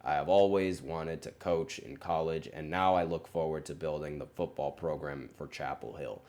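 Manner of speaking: lightly imitated coach's monotone, a bit subdued; a hint of a dry, unexcited coach reading a prepared quote; monotone Bill Belichick. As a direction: read the statement in a mild mock monotone. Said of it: "He probably said that in that monotone voice".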